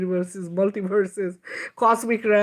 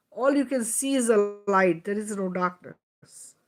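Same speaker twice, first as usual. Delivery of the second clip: guided visualization. Acted. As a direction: lead the listeners through it gently.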